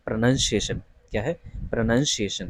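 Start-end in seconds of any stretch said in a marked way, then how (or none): 0.1-0.8 "प्रोनाउंसिएशन" with short pruh, then NUN; unstressed first syllable in "प्रोनाउंसिएशन", no "noun"; correct pronunciation. Shown as a demonstration. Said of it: "इसका जो सही उच्चारण है". 1.6-2.5 "प्रोनाउंसिएशन" with short pruh, then NUN; unstressed first syllable in "प्रोनाउंसिएशन", no "noun"; correct pronunciation. Shown as a demonstration. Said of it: "इसका जो सही उच्चारण है".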